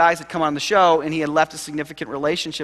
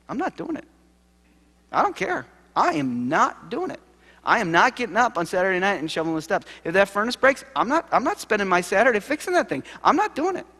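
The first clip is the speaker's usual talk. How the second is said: defiant refusal; 4 semitones higher than usual. Real, not acted. Emphatic refusal to shovel steps.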